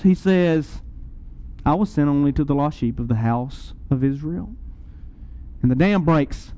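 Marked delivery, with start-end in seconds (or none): 1.6-4.5 lower, understated dismissive reply; imitated indifference. Jesus answers the Gentile woman, retold with low indifference. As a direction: say it as if unconcerned, pitched low. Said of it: "with a voice full of indifference".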